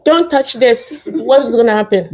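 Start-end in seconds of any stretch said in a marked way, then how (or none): 0.0-1.1 slow, patient don't touch this; gentle warning. Retold or imitated. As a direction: calmly tell the child not to touch it. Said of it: "as much as I say".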